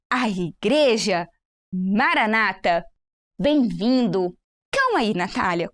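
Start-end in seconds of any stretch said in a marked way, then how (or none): 0.1-4.4 slow demo. Shown as a demonstration. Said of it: "Então, olha".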